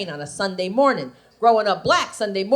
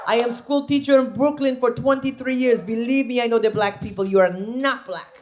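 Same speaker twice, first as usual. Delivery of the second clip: put-on Brooklyn Jewish accent; old Jewish lady voice. Comic Ruthie lecturing the bride, Brooklyn Jewish accent. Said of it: "Ruthie says to me".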